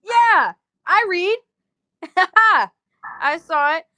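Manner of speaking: loud, high, laughing outburst; real laughter. Real, not acted. Laughing reply to a message.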